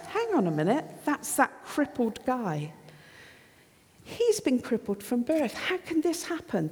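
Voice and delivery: acted crowd astonishment, pitch jumping up; astonished. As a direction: puzzle it out in disbelief. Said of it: "They are astonished".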